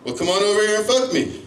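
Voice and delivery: high, calling-out owl character; owl's voice. Retold or imitated. Owl inviting the runner over, high comic call. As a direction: beckon from afar in a high voice. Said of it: "So he's saying".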